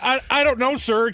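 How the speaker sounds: mildly stammered polite reply; flustered stammer. Retold or imitated. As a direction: stumble over the first word, then answer meekly.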